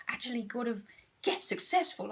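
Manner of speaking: hushed, as if it's a scary secret; mock whisper. Teasing her ego's fear of success, hushed. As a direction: whisper it like forbidden news.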